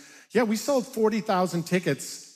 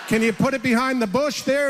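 laughing while calling out; 5 semitones higher, 3 dB louder than usual. Retold or imitated. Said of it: "And I'm like".

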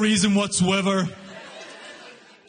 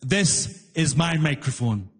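slow, lower, lightly acted booth guy; booth guy on microphone; 5 semitones lower, slower than usual. Fare collector explaining his microphone to the rider, slow booth-guy voice. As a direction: spell it out slowly and low. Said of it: "He leans into his little microphone and he says".

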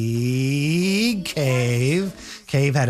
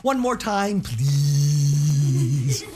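pleading princess; 2 semitones lower, much slower than usual. Acted. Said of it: "says Elizabeth".

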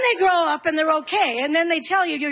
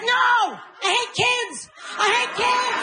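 exasperated mom; 9 semitones higher, slower than usual. Acted. Mom snapping back at kids.

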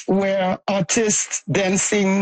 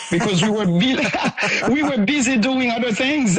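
laughing; 2 semitones higher than usual. Real, not acted. Laughs while telling mentor's challenge.

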